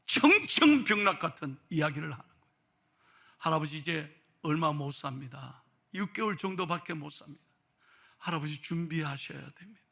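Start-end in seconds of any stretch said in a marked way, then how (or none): 3.4-9.8 subdued, softly voiced prognosis; understated, hushed doctor; grave doctor. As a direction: deliver bad news quietly. Doctor gives months to live.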